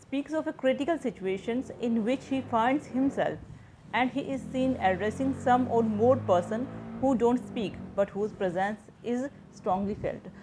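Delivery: slow, measured reading of a textbook definition; slow dictation reading. Shown as a demonstration. Teacher to students, reading the definition slowly aloud. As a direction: read each English phrase out slowly, as if for notes.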